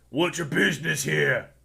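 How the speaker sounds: gruff, rough monster guard voice. The game master plays a bugbear walking up to the players, in a bugbear voice. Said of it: "one of the bugbears is gonna walk up and goes".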